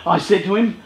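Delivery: normal talking voice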